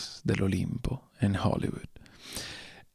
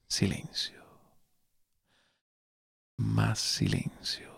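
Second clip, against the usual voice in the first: hushed whisper; 6 dB quieter, slower than usual. Acted. Dramatic hush in narration.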